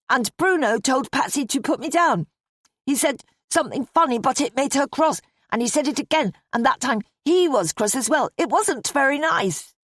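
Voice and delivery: put-on high, earnest child's voice; little girl explaining. A narrator's reading. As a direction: tell the tale as a small girl.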